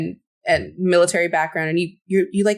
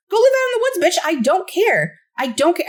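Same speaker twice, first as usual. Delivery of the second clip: put-on Boyd's angry brush-off; 10 semitones higher than usual. Boyd telling Randall to go live in the woods, high angry dismissal. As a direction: wave him off with contempt. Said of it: "he's like".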